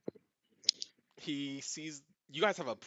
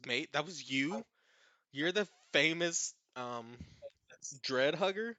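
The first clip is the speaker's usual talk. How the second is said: put-on faint Australian accent; 5 semitones higher, 8 dB louder than usual. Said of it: "Is he Australian?".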